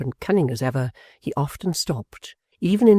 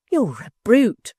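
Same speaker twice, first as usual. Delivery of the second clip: much higher, slow outraged exclamation; old woman snapping at him; exclaimed; 8 semitones higher, 4 dB louder, slower than usual. A narrator's reading. Mrs Jiniwin to her son-in-law, outraged exclamation. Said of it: "exclaimed Mrs. Jiniwin".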